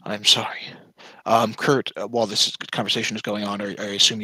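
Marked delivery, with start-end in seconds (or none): 0.0-0.6 breathy whispered apology; whispered sorry. Real, not acted. Player whispers sorry to the table, an unvoiced whisper. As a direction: whisper it under your breath.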